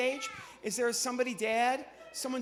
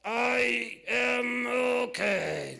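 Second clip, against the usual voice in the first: very slow, louder puppet reply; 4 semitones higher, 8 dB louder, much slower than usual. Acted. Puppet Zero tells the ventriloquist he's fine, slow. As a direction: drag it out like a dazed puppet.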